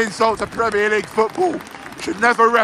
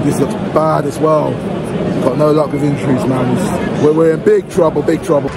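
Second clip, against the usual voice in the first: loud rant; 5 semitones lower, 5 dB louder than usual. Real, not acted. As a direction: lower and much louder ranting. Ranting loudly at the match.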